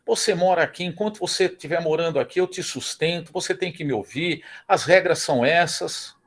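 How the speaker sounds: strict father scolding. Retold or imitated. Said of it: "Brigava com a filha".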